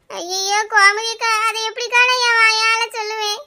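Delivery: theatrical tearful wail; acted sobbing lament; choked with grief. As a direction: wail as if grief blocks the throat. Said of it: "துக்கம் என் தொண்டை அடைக்குது".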